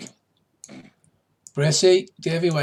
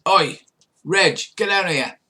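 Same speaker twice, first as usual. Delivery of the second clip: calling out; 6 semitones higher, 5 dB louder than usual. Acted. Pirate calls to a crewmate.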